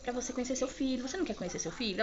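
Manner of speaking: imitating a kind nurse coaxing a patient; gently retold reassurance; calming. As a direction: talk someone down kindly. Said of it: "Ela começou a me acalmar".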